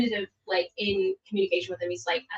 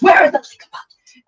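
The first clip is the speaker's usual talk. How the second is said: angry demand; 8 semitones higher, 10 dB louder than usual. Acted. Angry father demands missing creature.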